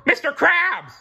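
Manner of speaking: high loud cry; screamed. A narrator's reading. Squidward finding frozen Krabs, loud shout. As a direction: cry out in shock. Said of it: "screamed Squidward".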